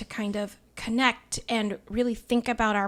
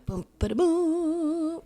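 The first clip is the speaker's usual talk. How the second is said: higher, slow ba-da-boom drumroll; 6 semitones higher, much slower than usual. Acted. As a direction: build suspense like a drum fill. Drumroll buildup.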